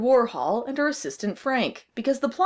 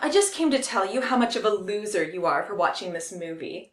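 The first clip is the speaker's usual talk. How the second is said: bubbly sorority girl, lightly voiced; a hint of a snooty cheerleader; Jenny Perfect; 2 semitones lower than usual. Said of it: "Jenny Perfect".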